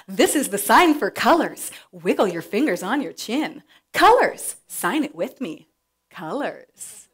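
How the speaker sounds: put-on slow, sing-song kids' TV teaching; lightly voiced TV host teaching toddlers; Signing Time host voice. Shown as a demonstration. Kids' TV host teaches a sign, slow and sing-song. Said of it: "I do a pretty good Rachel Coleman".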